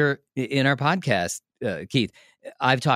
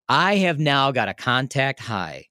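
stoned calm; much slower than usual. Retold or imitated. Contact high from the weed.

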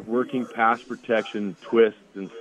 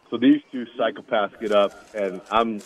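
ordinary talk

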